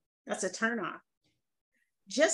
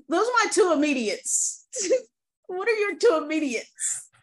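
laughing; 6 semitones higher than usual. Real, not acted. Laughing over the smell story.

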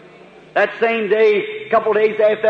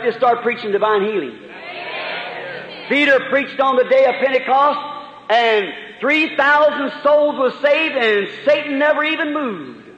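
fervent preaching; 3 semitones higher than usual. Real, not acted. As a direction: press the point home to the congregation. Preaching at full force.

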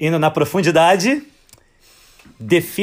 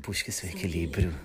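P=A; hammy stage actor; 11 semitones lower, 13 dB quieter than usual. Retold or imitated. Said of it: "Ela já botou até um tom dramático".

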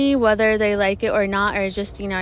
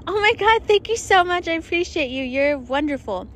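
high, gushing gratitude; much higher, thrilled thank-you; 5 semitones higher than usual. Retold or imitated. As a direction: squeal your thanks at the gift. Gushing thanks to generous man.

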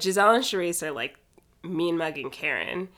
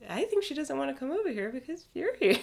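mocking parody; 8 semitones higher than usual. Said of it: "It's like, wow".

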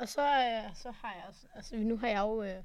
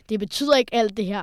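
earnest teacher; 8 dB louder than usual. Retold or imitated. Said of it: "kigger meget dybt ind i mig".

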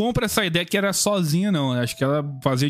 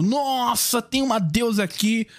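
imitated crowd shouting; 6 semitones higher than usual. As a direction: play onlookers crying out in awe, pitched up. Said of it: "Eles ficavam gritando".

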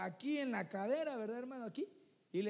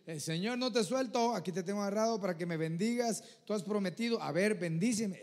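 demanding prayer; 4 dB louder than usual. Acted. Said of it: "Eso es muy diferente a estar llorando y humillado".

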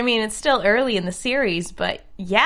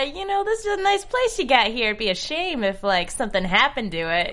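mob shakedown. Retold or imitated. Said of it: "more like the mob".

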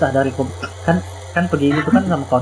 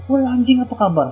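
pitched-up buddy greeting, mock-rude; cheerful rough greeting; 10 semitones higher than usual. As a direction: clap him on the shoulder and call out. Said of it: "Aku tepuk dagu".

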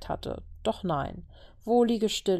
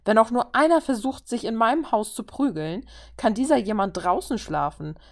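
stern warning; 4 semitones higher, 4 dB louder than usual. Acted. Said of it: "warnte Clint".

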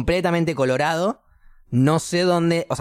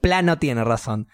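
slow mock realization; slower than usual. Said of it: "Y yo hago".

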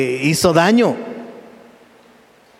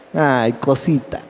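tender Jesus; 3 semitones lower, slower than usual. Acted. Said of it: "Así".

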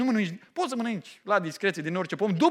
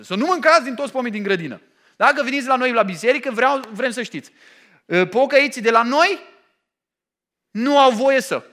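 a hint of a stern legalist pastor, louder; mock legalist preacher; 3 semitones higher, 8 dB louder than usual. Preacher mimics a strict church announcing its rules, louder and mock-stern. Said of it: "Parcă sună ca o biserică în asta legalistă baptistă".

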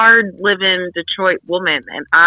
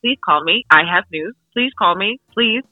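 pleading voicemail; 4 semitones higher than usual. Retold or imitated. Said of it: "me being like".

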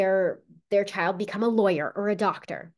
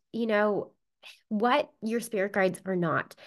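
usual speaking voice

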